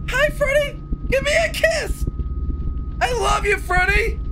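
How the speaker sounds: very high, cutesy pleading voice; mock sweet-talk. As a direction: coo it way up high to the monster. Mock sweet-talks the monster.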